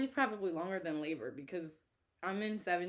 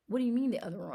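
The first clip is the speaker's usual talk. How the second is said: retold scream; 4 semitones higher, 6 dB louder, much faster than usual.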